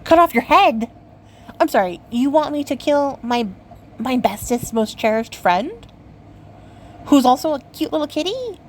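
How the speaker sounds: retold flabbergasted outburst; stunned disbelief. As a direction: sputter it out, struck stupid. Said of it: "like, struck stupid".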